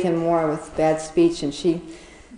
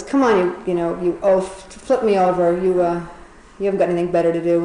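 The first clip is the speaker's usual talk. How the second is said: louder, mildly impatient mock order; demanding turtle; 5 dB louder than usual. Stranded turtle ordering elephant to flip him, impatient. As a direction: boss the helper about a little.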